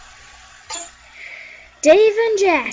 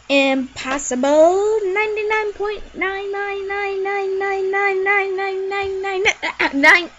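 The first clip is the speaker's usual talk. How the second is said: dramatic announcement; 5 semitones higher, slower than usual. Acted. Naming a hard level.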